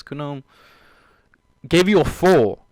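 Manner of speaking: ordinary delivery, nothing marked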